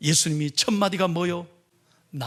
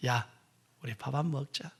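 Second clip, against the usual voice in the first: much softer, casual friendly call; friendly invitation; 6 semitones lower, 8 dB quieter than usual. Pretend. Calling a friend to share a meal, soft and friendly. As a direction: invite an old friend gently.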